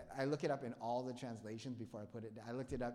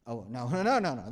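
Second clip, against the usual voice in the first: laughing no; 12 dB louder, faster than usual. Real, not acted. Laughing rejection.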